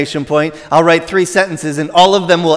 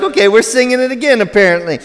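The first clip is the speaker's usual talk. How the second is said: mock resignation; 4 semitones higher, 4 dB louder, faster than usual. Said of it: "you're like".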